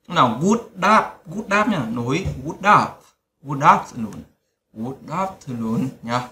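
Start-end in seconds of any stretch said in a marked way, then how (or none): 0.4-2.9 'good up' run together as one word, d carried onto the vowel; linked sounds. Shown as a demonstration. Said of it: "đọc nối âm nhá". 3.4-5.9 'good afternoon' joined, the d of good sliding into afternoon; linked sounds. Shown as a demonstration. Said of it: "các bạn đọc nối âm cho Lộc này".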